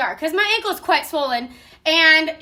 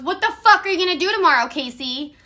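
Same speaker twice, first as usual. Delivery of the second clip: rapid retold scolding, dropping on the name; scolding mom; 2 semitones higher, faster than usual. Mom grilling daughter about tomorrow, angry. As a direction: act out a cross mom's quick demand. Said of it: "cussing us out".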